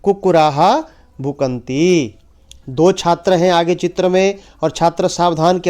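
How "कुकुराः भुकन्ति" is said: slow, stretched "कुकुराः भुकन्ति"; "कुकुराः" drawn out, pause, then "भुकन्ति"; repeat-after-me model. Shown as a demonstration. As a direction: say "कुकुराः भुकन्ति" slowly for pupils to echo. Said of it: "शाबाश, आप भी बोलें".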